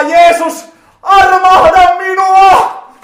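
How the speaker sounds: korkealla ja kovaa, venytetty epätoivoinen huuto; kova huuto. Pretend. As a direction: huuda täysillä armoa, hitaasti venyttäen. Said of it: "näin hän huusi". (epätoivoinen, kova avunhuuto)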